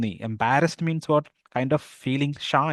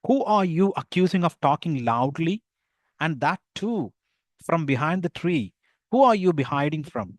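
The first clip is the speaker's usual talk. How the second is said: higher, slow, challenging tone; accusing vendor; 4 semitones higher, much slower than usual. Acted. Ribbon vendor confronting the hidden boy, higher challenging tone. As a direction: demand to know who he is.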